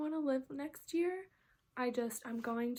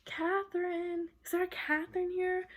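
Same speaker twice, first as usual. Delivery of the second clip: mock calling out; 5 semitones higher than usual. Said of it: "they're, like, screaming it".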